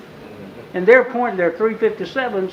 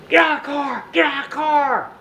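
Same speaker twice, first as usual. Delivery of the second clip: barked order; 8 semitones higher than usual. Retold or imitated. Officer yells.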